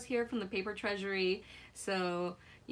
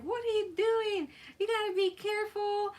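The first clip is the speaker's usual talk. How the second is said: raised, louder mock scolding from a worried husband; imitating an angry yell; 11 semitones higher, 4 dB louder than usual. Husband scolding his hurt wife, mock angry yell. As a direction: replay his startled telling-off, pitched high. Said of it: "was angry and yelled at me".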